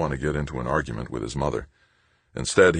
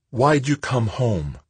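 cold accusation; 9 semitones higher, slower than usual. A narrator's reading. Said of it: "her tone was cold with accusation".

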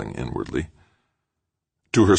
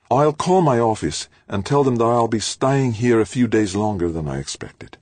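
higher and louder, resigned woman conceding; Halleck's voice; 9 semitones higher, 4 dB louder than usual. Acted. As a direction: give in with forced brightness. Halleck gives in.

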